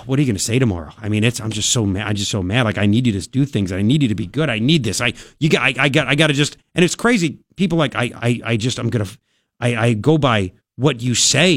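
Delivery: imitating an upset listener. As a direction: lightly act out a distraught fan pleading. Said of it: "they're like".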